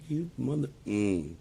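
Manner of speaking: sudden high, loud snap of a curse; mock angry outburst. Imitating himself cursing out a guy, angry. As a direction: bite off a furious insult. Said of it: "I'm like".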